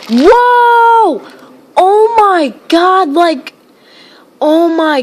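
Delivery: high, loud gasp of awe, slowing down; startled whoa. Real, not acted. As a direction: shriek then draw it out slowly. Another big gust.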